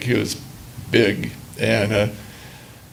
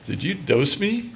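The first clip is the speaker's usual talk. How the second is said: slow, softer, suspicious question; retold suspicion; 3 semitones higher, 4 dB quieter than usual. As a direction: imitate him asking it slowly and quietly, sizing you up.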